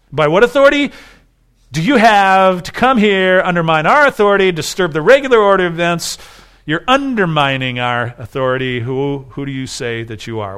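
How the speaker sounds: a hint of priestly outrage, building then fading; indignant priests. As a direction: confront him as the offended chief priests. Priests interrogate Jesus.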